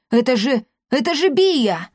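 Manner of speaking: high, stretched-out cry of alarm; startled, rising outcry; alarmed yell. A narrator's reading. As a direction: stammer it, then cry out the name. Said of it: "завопил он".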